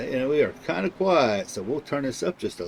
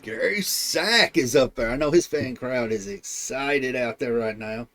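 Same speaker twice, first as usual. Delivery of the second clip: excited play-by-play; 5 dB louder, slower than usual. Real, not acted. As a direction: lively race call, punching the driver's name. Hypes the driver up front.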